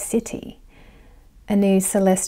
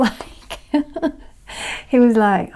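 usual speaking voice

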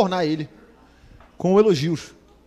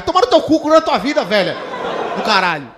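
mock anger; 3 dB louder than usual. Mock telling off gossip.

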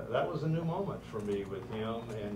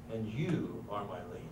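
much softer, lower and hushed; soft and tender; 4 semitones lower, 8 dB quieter than usual. Retold or imitated. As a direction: let it fall gently, almost whispered. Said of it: "And he says".

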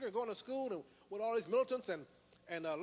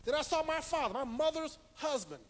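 higher, emphatic preacher's testimony; impassioned preaching; 5 semitones higher, 4 dB louder than usual. Real, not acted. Preacher telling of his father taking him from Saint Louis, impassioned. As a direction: testify forcefully, pitch raised.

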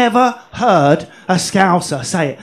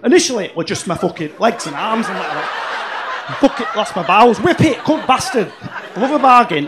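Yorkshire syndrome. Retold or imitated. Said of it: "Gary was seventeen when he realised he had Yorkshire syndrome".

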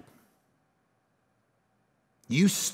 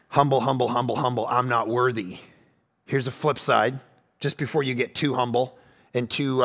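much lower, softer, sincere; soft intimate preaching; 10 semitones lower, 4 dB quieter than usual. Acted. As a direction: lean in and speak it softly. Soft low teaching stretch.

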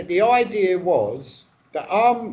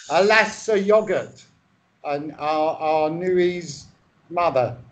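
mock Shakespeare recital; 3 semitones lower than usual. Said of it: "I thought you knew Shakespeare".

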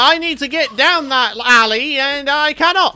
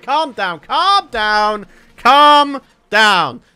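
calming himself; 5 dB louder, much slower than usual. Real, not acted. Telling himself to calm down.

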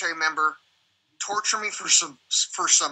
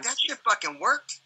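amazed disbelief; 5 semitones higher, slower than usual. Retold or imitated. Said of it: "I was like".

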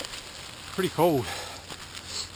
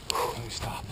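breathless, gasping for air; panting between words from the climb; out of breath; 3 semitones lower, 5 dB quieter than usual. Real, not acted. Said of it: "Sorry, I'm out of breath".

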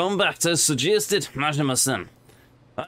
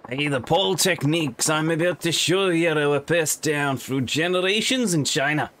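put-on Scottish accent. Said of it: "why do you speak with a Scottish accent".

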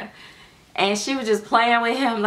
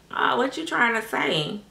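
higher-pitched mock questioning; imitating her daughter; 5 semitones higher than usual. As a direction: draw it out like a teasing daughter. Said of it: "this what she always say".

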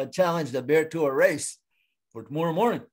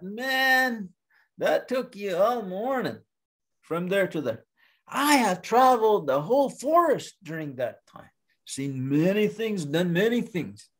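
higher-pitched, scoffing disbelief; boastful bear; 6 semitones higher than usual. Acted. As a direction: brag and scoff at a smaller rival. Bear boasts, belittles turtle.

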